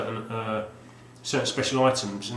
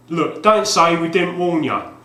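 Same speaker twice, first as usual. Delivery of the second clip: loud, higher, slow tough-guy warning; hammed-up box blurb; 6 semitones higher, 10 dB louder, slower than usual. Reading the game box aloud in a gruff ad voice. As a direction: ham up the cover warning like a game ad. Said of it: "it might take a bit of acting".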